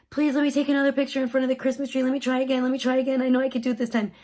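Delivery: quick, run-together pleading; pleading child. Retold or imitated. Daughter begging mom for another photo, rapid pleading. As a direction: rattle it off as a begging kid.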